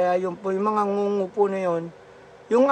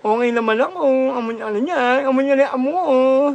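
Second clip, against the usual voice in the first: slurred cleft-palate speech, lightly raised; mock Ngongo voice; 3 semitones higher than usual. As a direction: imitate the Ngongo child calling home, slurring. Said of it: "yung kwento ni Ngongo".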